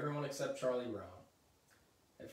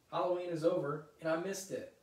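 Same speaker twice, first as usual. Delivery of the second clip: higher, louder miserable complaint; upset wail; 4 semitones higher, 5 dB louder than usual. Acted. Sally blaming Linus for a missed Halloween, upset wail. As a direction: moan it out in outrage.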